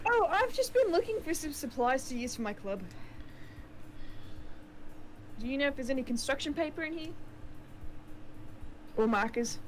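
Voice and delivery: put-on Monica's line in a New Zealand accent; bright schoolgirl with a New Zealand accent. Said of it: "keep using the New Zealand accent".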